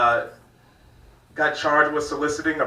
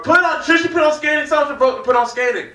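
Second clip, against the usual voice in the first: put-on drunk guy yelling; 11 semitones higher, 6 dB louder than usual. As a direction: bellow it like a drunk at the bar. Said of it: "And he's on the people at the bar".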